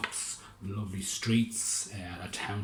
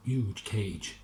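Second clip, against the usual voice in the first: high, loud, puzzled mayor; Lord Mayor; 8 semitones higher, 6 dB louder than usual. Acted. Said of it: "said the Lord Mayor".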